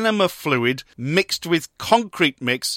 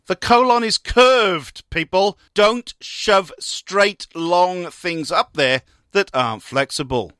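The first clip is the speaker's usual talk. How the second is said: slow, raised, punched-out advice; emphatic doctor's warning; 4 semitones higher, 3 dB louder, slower than usual. Acted. Doctor warning people after surgery, emphatic. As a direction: lay it down slowly and firmly.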